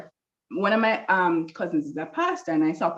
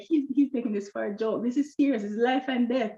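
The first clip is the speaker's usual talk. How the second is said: retold annoyance, pitched up; annoyed; 5 semitones higher than usual. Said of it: "I saw annoyed".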